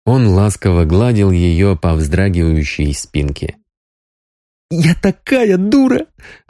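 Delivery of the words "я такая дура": much higher and slow, mildly tearful; childlike whimper. A narrator's reading. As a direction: whine it like a sobbing child. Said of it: "жаловалась Соня, по-детски всхлипывая".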